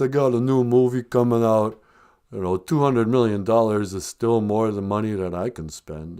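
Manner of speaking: lightly voiced boxer, resilient; Sylvester Stallone. Film star shrugging off the payout, lightly impersonated boxer.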